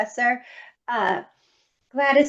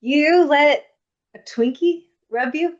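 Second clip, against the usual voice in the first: high, loud disbelief; a startled teacher's high question; incredulous; 6 semitones higher, 3 dB louder than usual. Retold or imitated. Ballet teacher hears Twinkie did it, asks in loud disbelief. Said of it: "she was like".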